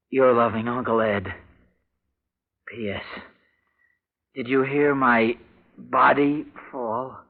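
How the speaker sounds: reading out the uncle's letter, quiet and measured. Acted. Reads uncle's letter aloud.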